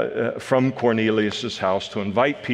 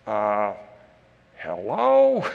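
mock hello; slower than usual. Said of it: "we look at this and go".

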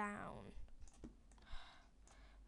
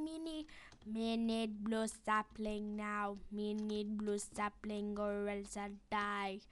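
caveman voice; slower than usual. Pretend. Goofy voice begging for sapling.

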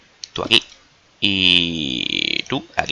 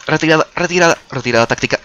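panicked; 8 semitones higher than usual. Real, not acted. Fleeing a skeleton.

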